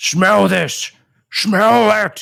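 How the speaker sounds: insistent, rasping voice pushed up high. Playing Frank, approaching another character with a bone: yelling, booming voice. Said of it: "Why are you yelling? I told you. Your voice, it's booming".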